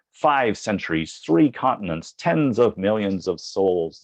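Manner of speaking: slow, dramatic trailer read; hammed-up epic announcer build; movie trailer voice. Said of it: "This is starting to sound like a movie trailer".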